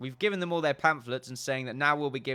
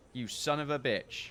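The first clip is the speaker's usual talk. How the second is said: plain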